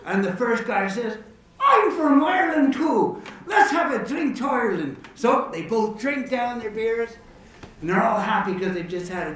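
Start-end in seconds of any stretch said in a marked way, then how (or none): 1.6-5.0 high, loud joke-character exclamation; hammed-up barroom toast; delighted discovery. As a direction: hail a newfound countryman. Joke character delighted at shared country.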